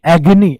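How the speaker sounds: एगनी said loud and clear as a model; emphatic repeat. Shown as a demonstration. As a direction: hammer एगनी home, EG-nee. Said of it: "इसको एगनी बोल देते हैं".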